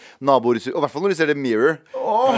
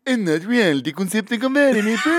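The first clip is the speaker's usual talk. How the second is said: high, hammed-up delight; high put-on enthusiasm; mock reality-show voice; 8 semitones higher than usual. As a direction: play the thrilled contestant. Hammed-up acted reality contestant.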